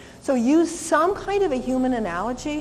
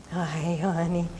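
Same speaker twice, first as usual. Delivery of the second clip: sweet greeting; 6 semitones lower, 5 dB quieter, slower than usual. Retold or imitated. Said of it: "'cause Anne's very sweet about it".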